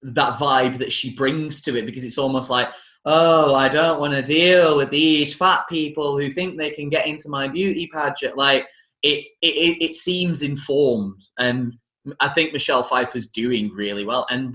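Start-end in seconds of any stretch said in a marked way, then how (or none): 3.1-8.4 a hint of a snooty pageant queen; haughty mock Queen Bee. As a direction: sniff at them like a bored pageant queen. Mimicking Queen Bee's disdain.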